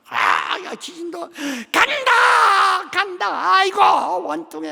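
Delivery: high wailing shout of a departing ghost; high, slow wailing ghost crying it is leaving; aggrieved ghost. Retold or imitated. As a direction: wail like a bitter spirit being thrown out. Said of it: "원통하게 생각하거든".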